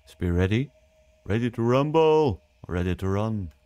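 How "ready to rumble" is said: slow, drawn-out fight announcer call; ring announcer. Pretend. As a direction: stretch it like a boxing ring announcer. Wordplay on ready, boxing announcer call.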